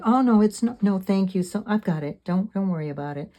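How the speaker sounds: high, loud brushing-off of help; flustered polite refusal. Retold or imitated. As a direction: wave the help away in a hurry. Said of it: "my normal worldly self wants to say".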